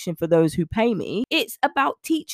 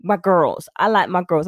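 lightly put-on American accent, a little lower; terrible American accent; 3 semitones lower, 3 dB louder than usual. Coach naming her clients in a hammed American accent. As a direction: have a bad go at an American accent. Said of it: "I'm doing a terrible American accent".

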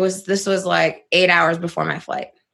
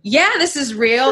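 laughing through tears; 6 semitones higher, 4 dB louder than usual. Retold or imitated. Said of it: "I'm crying".

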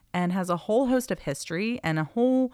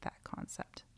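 whispering; 17 dB quieter than usual. Real, not acted. Aside dropped to whisper.

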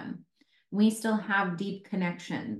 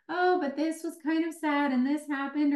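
mock whiny client; 7 semitones higher than usual. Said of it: "She was like".

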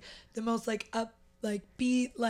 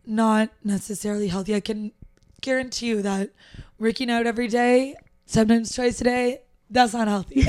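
raspy voice, a bit louder; 7 dB louder than usual. Real, not acted. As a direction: speak with a raspy voice. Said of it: "my raspy voice on here".

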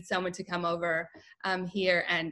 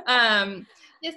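ordinary talk

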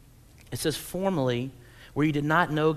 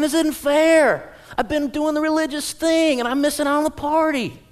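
put-on whiny older brother; 9 semitones higher, 6 dB louder than usual. Preacher voicing the pouting brother to the church. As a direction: draw out the sulky protest. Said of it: "He's saying".

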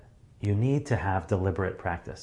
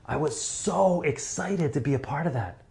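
much higher, soaring excited voice; huge-crowd excitement; 7 semitones higher than usual. Shown as a demonstration. Speaker demonstrating excitement for a stadium crowd, high. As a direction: sell it to fifteen thousand people. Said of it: "fifteen thousand people, you'll be like".

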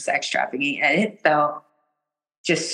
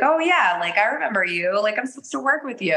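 higher-pitched, delighted-sounding "oh, it's you"; acted recognition; 5 semitones higher than usual. Speaker greeting the healer like an old friend, acted recognition. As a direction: imitate greeting a long-lost friend.

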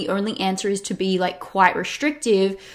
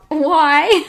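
high, loud hiccup breaking into a laugh; word jolted up by a hiccup, then laughing; 8 semitones higher, 7 dB louder than usual. Real, not acted. Podcast host apologising for hiccups, hiccupping. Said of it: "I've got the hiccups".

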